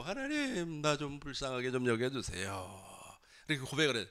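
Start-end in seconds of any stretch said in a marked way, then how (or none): 0.0-2.8 mock-wailing prayer for pity; retold plea. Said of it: "과거에는 모르고".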